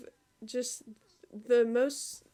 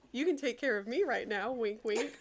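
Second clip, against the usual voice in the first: amused flirty read. Real, not acted. Laughs reading flirty line.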